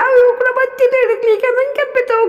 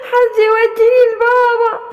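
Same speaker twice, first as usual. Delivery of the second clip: lost little one crying. Acted. Lost little animal asking to be taken to daddy, tearful. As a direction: sound small and lost.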